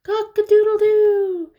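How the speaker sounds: high, loud held crow; rooster crow. Acted. Parent reading, rooster crows as day begins. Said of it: "The rooster crows".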